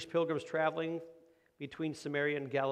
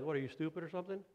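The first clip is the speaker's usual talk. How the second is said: mock bratty kid; 2 semitones higher, 3 dB quieter than usual. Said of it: "kids are like".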